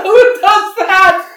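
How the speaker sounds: high, slow, loud disbelieving cry; incredulous outcry. Real, not acted. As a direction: stretch it out in utter disbelief. Outraged at friend's move.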